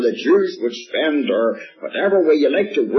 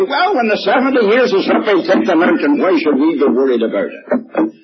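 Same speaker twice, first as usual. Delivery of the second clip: a hint of a blunt, dismissive man, voiced a little louder; hard-headed man; 3 semitones higher, 3 dB louder than usual. Preacher mimicking the hard-headed man, lightly and bluntly. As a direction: toss it off like a stubborn man who won't bother. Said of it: "the average hard-headed man would say".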